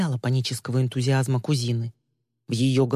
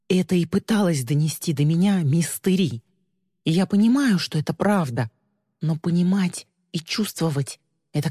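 ordinary delivery, nothing marked

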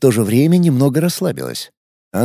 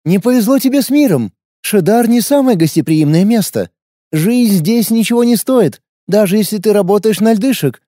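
friendlier; 8 semitones higher than usual. A narrator's reading. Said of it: "более дружелюбным голосом принялась объяснять".

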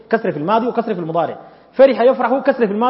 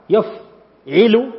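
يفعل stretched very slowly, each syllable held, rising at the end; teacher stretching يفعل to teach the vowel; drawn-out drill word; much slower than usual. Shown as a demonstration. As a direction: slowly spell out يفعل for students. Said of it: "teacher drawing out the pattern".

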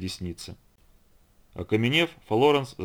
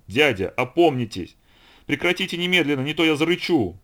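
acted outrage, climbing in pitch; furious demand; 5 semitones higher, 4 dB louder than usual. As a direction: shake someone to their senses. Niece shakes uncle, threatens to roar.

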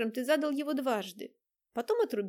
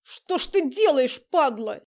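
loud, slow snarl of rage; furious attack; 3 semitones higher, 10 dB louder, slower than usual. Acted. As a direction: spit it out as he slams him. Влад бьёт Романова о стену. (яростный громкий рык)

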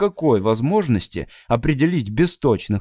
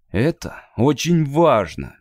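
gentle; slower than usual. Acted. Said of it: "мягко сказал Мэтт".

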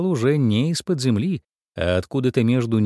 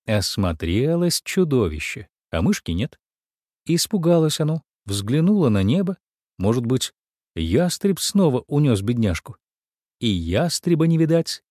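usual speaking voice

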